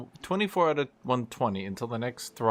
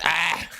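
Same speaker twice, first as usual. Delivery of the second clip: mock scream; 3 semitones higher than usual. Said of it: "He screams".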